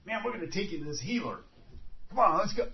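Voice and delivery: casual buddy. Retold or imitated. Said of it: "the guy saying".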